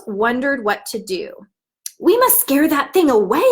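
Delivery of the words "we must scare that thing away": crow voice. Acted. Crows talk in the story.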